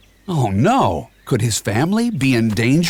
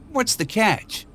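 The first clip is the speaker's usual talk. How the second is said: suspicious Shrek; 10 semitones higher, 4 dB quieter than usual. A narrator's reading. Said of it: "he asked".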